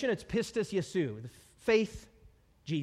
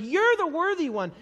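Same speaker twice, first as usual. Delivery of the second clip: loud, high shout of acclaim; acclaiming worshipers; 10 semitones higher, 7 dB louder than usual. Retold or imitated. Worshipers hail the slaughtered Lamb, loud acclaim. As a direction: proclaim it like an adoring crowd. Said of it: "They're like".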